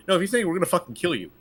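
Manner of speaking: fast mock threat; mock menace. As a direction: rattle off the threat like a thug. Imitating threatening bosses.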